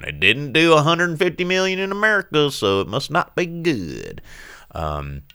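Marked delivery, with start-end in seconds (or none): 0.0-4.2 mock studio exec. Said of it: "they're, like, going".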